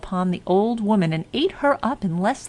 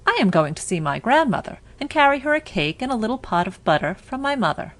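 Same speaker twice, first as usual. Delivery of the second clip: put-on higher, quick and eager young girl; little girl's voice; 4 semitones higher, faster than usual. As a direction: chirp it out like an innocent child. Girl answers the wolf.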